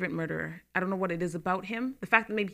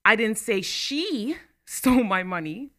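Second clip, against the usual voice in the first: she leaned on, slow; stress on SHE; slower than usual. Shown as a demonstration. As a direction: point at the word she. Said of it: "means I said someone did".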